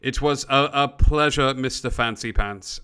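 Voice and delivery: lightly voiced older British gentleman; understated British accent, courteous. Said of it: "the older gentleman nods at you and goes".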